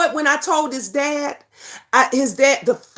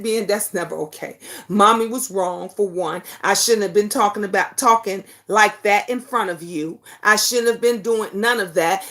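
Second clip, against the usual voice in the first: gentle explaining; 6 semitones lower, faster than usual. Retold or imitated. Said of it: "I had to explain to Ben".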